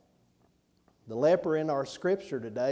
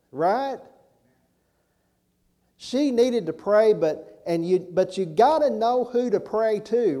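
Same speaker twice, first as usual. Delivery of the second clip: higher and louder, preaching at full force; fiery preaching; 4 semitones higher, 6 dB louder than usual. Acted. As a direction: drive it home to the congregation.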